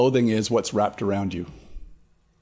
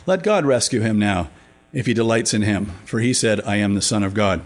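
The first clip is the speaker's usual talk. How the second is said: measured, slightly raised Bible reading; scripture reading. Acted. Pastor reads Matthew to the class, steady and clear. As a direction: read the passage to the group.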